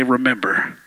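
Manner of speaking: mock Mufasa voice; low movie voice. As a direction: drop the voice deep for the line. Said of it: "Look to your neighbor and say".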